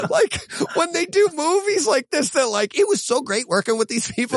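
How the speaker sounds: high, laughing mock praise; laughing mockery. Real, not acted. Mocking stock actor praise, laughing.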